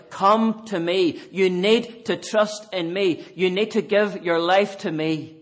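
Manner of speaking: tender invitation; gentle but firm call. Pretend. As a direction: call them in gently, yet firmly. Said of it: "calling you ever so gently and yet ever so firmly".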